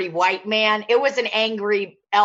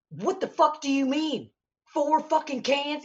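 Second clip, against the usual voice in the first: higher-pitched, indignant imitation; mock outrage; 6 semitones higher, 4 dB quieter than usual. Angry shopper challenging the Aldi employee's limit, mock-mad. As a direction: act the shopper's disbelief without raising the volume. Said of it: "super mad".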